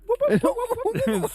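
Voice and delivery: high, loud whoop, whoop chant; high whooping while snapping fingers; excited whooping. Retold or imitated. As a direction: cheer like you spotted the number. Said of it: "snapping my fingers".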